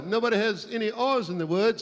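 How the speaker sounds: put-on South Georgia accent impersonation; Jimmy Carter, South Georgia. Comic mimicking South Georgia speech for the crowd, Carter-style accent. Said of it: "you talk like Jimmy Carter".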